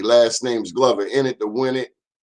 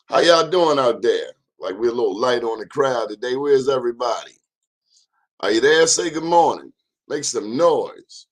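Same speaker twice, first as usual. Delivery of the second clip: calling out; 3 semitones higher, 5 dB louder than usual. Real, not acted. Host calling out to stream crowd.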